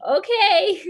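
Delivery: high, loud mock-supportive reaction; mimicking Noah. Teasing a co-performer over his reaction to joke pitches, high mock encouragement. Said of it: "That's Noah's like".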